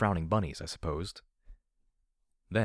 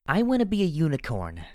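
high, loud creature voice, more cry than hiss; eerie little foal insisting, pitched way up; filly's eerie hiss; 9 semitones higher, 6 dB louder than usual. A narrator's reading. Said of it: "she hissed".

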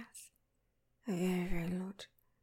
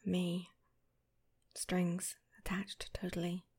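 whispering; much slower than usual. Acted. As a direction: whisper it close and intimate.

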